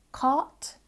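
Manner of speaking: "cart" with an open ah, no r; different accent. Shown as a demonstration. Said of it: "in a different accent".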